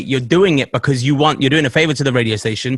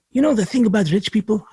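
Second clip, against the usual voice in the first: put-on higher-pitched Arab accent, drifting towards Russian; imitated Arab accent; 7 semitones higher than usual. Driver musing to passenger about rich people, imitated Arab accent. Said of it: "starting to sound Russian".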